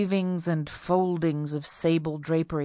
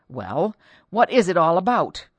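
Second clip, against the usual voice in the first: irritated husband; 7 dB louder than usual. Acted. Annoyed husband demands.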